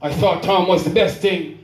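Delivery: rhythmic recital of a dramatic dialogue; spoken-word poem. Acted. Poet retelling a hurt woman's confession, spoken-word recital. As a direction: carry the verse along in steady rhythm.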